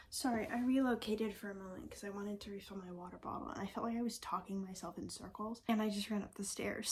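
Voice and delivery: breathless after running upstairs; out of breath. Real, not acted. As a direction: talk while catching your breath. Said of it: "so I'm out of breath again".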